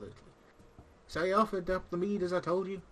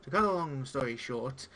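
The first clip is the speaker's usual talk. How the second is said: pirate-esque speech. Acted. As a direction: play the gruff old tavern pirate, not too broad. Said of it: "pirate-esque speech".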